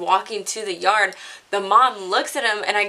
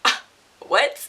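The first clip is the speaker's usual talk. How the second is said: feigned surprise; 4 semitones higher than usual. Retold or imitated. Caught, feigning confusion.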